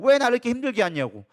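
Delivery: mock protest to God; imitated complaint. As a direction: act out blaming God for hardship. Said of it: "하나님 앞에 어떻게 떠넘기려고". (원망하듯 따지는 흉내)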